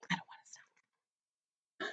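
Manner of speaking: slow, hushed confiding whisper; conspiratorial whisper. Acted. Book character confides in kids about playing on, secretive whisper. Confiding they want to continue.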